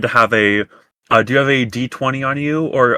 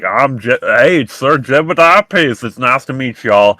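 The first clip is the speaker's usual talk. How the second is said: put-on thick southern accent; 2 semitones higher, 3 dB louder than usual. Dwarf greeting the party in a light Southern accent. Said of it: "talked like this all the time".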